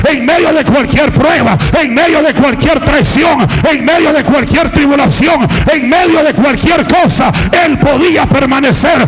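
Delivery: driving, rhythmic sermon climbing in pitch; impassioned pulpit cadence, easing at the close; fiery preaching. Real, not acted. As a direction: pile up each phrase with growing fervor. Preaches at full force.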